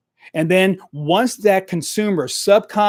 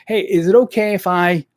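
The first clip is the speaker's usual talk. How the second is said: timid nurse asking; 3 semitones higher than usual. Shown as a demonstration. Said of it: "sound like a nurse".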